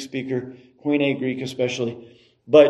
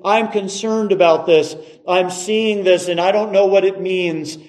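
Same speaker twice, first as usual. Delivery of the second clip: earnest, higher-pitched appeal to God; pleading prayer; 4 semitones higher than usual. Acted. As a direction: plead urgently on someone's behalf. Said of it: "but then pleading prayers".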